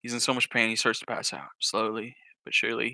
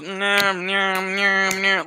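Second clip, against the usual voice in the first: imitated pummelling; 5 semitones higher, 3 dB louder, much slower than usual. Imitates dad's repeated beating blows.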